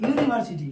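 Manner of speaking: "ইউনিভার্সিটি" opening on "yoo"; initial U as "yoo". Shown as a demonstration. Teacher proving the article rule, "ইউনিভার্সিটি" pronounced with initial "yoo". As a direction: say "ইউনিভার্সিটি" with a "yoo" start, falling at the end. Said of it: "ইউ এর মতো হচ্ছে".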